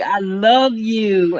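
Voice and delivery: slow, drawn-out and tender. Real, not acted. Telling a viewer she loves her, slow and tender. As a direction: linger lovingly on each word.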